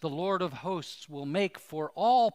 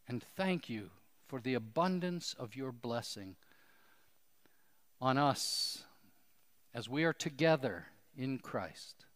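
earnest, measured prayer voice; closing prayer. Acted. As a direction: lead the congregation in prayer. Closing prayer led by pastor.

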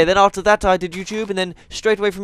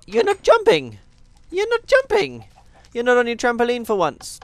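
high pet talk; 6 semitones higher than usual. Real, not acted. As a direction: coo at the cow in surprise. Talking to pet cow.

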